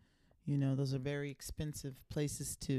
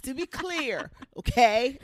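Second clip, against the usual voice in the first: laughing; 8 semitones higher, 13 dB louder, slower than usual. Real, not acted. Laughing clarification.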